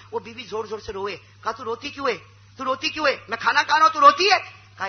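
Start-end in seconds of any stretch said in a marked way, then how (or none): 1.5-4.6 puzzled question building louder and higher; can't understand why she's crying, rising in disbelief; husband asks his crying wife why she weeps; baffled husband. Retold or imitated.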